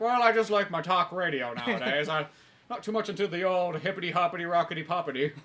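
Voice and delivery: a hint of a fogeyish grumbler; lightly voiced old man. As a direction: play the old talk-radio fan, lightly. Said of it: "get into your old man stage".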